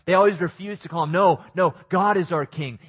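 loud, quick mock protest; defiant declaration. Preacher voicing the Jews refusing Caesar, loud and defiant. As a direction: belt it out as the proud crowd. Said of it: "they always refused to call Caesar their king".

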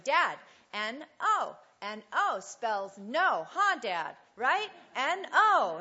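put-on excited little boy calling to dad. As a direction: play the excited kid showing off his spelling to dad. Small boy spelling to his dad.

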